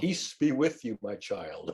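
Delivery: softly fading blessing; a gentle priest blessing a child; wandering holy man. Retold or imitated. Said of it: "blessing with hand gestures".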